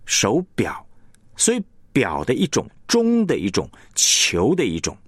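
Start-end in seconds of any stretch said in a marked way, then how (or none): 0.0-0.8 手表 with 表 fuller than 手; stress on 表. Shown as a demonstration. Teacher shows which syllable really matters, 表 emphasised. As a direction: land firmly on 表 in 手表. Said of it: "你真正要表达是那个表".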